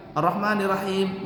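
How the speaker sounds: Ar-Rahmanir Rahim with a short single R; no doubling. Shown as a demonstration. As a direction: say it flat, no doubled letter. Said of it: "nggak pakai tasydid".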